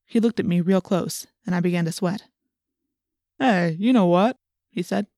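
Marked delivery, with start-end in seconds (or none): 3.4-4.4 lightly voiced cop, slow and drawn out; a hint of a cop, taking it slowly; probing policeman. A narrator's reading.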